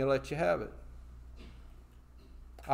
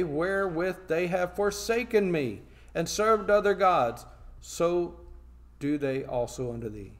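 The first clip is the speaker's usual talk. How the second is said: emphatic pulpit Bible reading; scripture reading; 4 dB louder than usual. Acted. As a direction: read the verse out firmly to the congregation. Reads scripture aloud.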